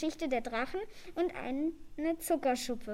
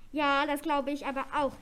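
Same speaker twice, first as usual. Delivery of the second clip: restrained yell, louder at usual pitch; shouting; 5 dB louder than usual. A narrator's reading. Elf agrees they must flee, mildly shouting. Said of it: "schrie Leonhard".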